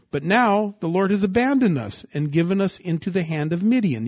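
preacher voicing Gideon's grievance; Gideon complaining. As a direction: voice Gideon's bitter protest. Gideon's complaint voiced in sermon.

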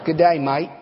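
put-on Aussie greeting; playful Australian accent. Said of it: "say this with an Australian accent".

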